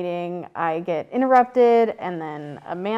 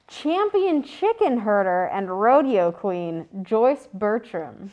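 show host intro; 3 semitones higher, 3 dB louder than usual. Acted. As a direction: stretch out the guest's name.

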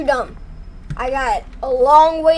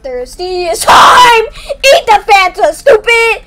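slow drawn-out taunting yell; battle yell; 5 semitones higher, 5 dB louder, slower than usual. Real, not acted. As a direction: roar it at the monster. Attacking monster, yelling.

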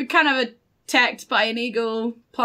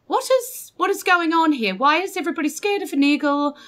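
higher, hurried questions; bewildered questioning; 5 semitones higher, faster than usual. Acted. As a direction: blurt out questions, asking to understand. Simon pleads for explanation in character.

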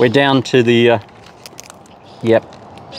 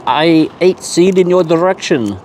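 higher-pitched, put-on French accent; mock French accent; 4 semitones higher than usual. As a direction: play Bob with a silly French accent. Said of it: "do that in a French accent".

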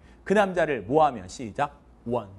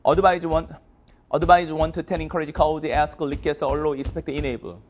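quick, evenly chanted memorized list; rapid-fire recitation; much slower than usual. Shown as a demonstration. Teacher showing how fast the list can be recited, rapid-fire. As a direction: rattle the word list off in one breath. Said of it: "저보다 더 빨리 한 애들도 있어요".

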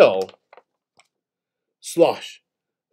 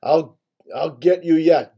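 snorted threat; 4 semitones higher, 4 dB louder than usual. Acted. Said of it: "Big Bottom Boar snorted".

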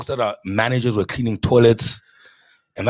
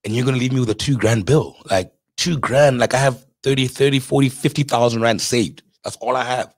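retold exasperated protest, pitched up; mock exasperation; 4 semitones higher than usual. Restaurateur protesting a big bill to investors, acted exasperation. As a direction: plead your case as if retelling an argument.

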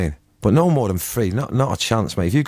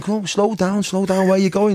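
imitating a singer; 10 semitones higher than usual. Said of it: "And he's going".

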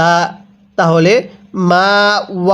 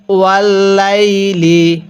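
ইদা সাজা with thin স and firm জ; slow recitation; much slower than usual. Shown as a demonstration. Teacher models the verse slowly for students. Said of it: "আমার সাথে মিলিয়ে পড়ুন".

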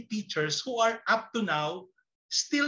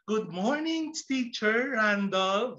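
lilting, stretched-out class greeting; lightly acted pupils' sing-out hello; slower than usual. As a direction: greet the teacher like an eager class. Eager first-day class greets teacher.

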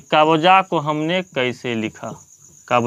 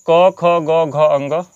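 slow letter recital; much slower than usual. Shown as a demonstration. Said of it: "देखते हैं क ख".

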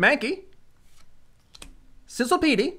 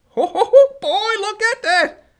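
higher, laughing through slow words; gleeful chuckle; 7 semitones higher, slower than usual. Real, not acted. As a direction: chuckle with delight while savoring it. Admiring the gold card.

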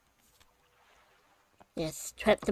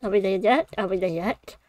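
put-on whiny kid asking repeatedly; pestering child; faster than usual. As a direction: nag like a bored child in the back seat. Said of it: "It sounds like a little child".

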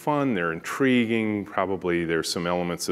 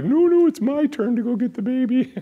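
eager team; 7 dB louder than usual. Retold or imitated. Team eager to fetch baby.

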